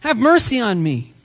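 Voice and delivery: high-pitched pleading call; crying out. Acted. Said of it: "cries out and says".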